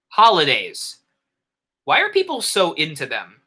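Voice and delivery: deliberate, theatrical storytelling opener; spaced-out phrases, read for effect; story narration. A narrator's reading. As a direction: pose it to the listeners as a narrator. Reads second story aloud.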